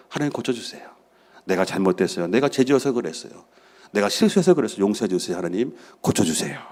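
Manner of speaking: soft, mostly low penitent plea; pleading prayer. Acted. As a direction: pray quietly, confessing to God. Acts out a repentant prayer.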